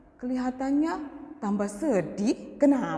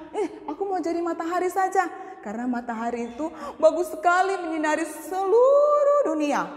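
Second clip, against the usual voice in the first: eager; 5 semitones higher, 3 dB louder, faster than usual. Acted. Child dreams of being the sun.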